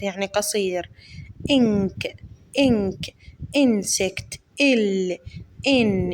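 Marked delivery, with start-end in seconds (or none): 1.5-6.1 clipped short i in إنك and إنسكت; short English i, said fast; short i sound. Shown as a demonstration. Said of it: "بيتنطق هنا short".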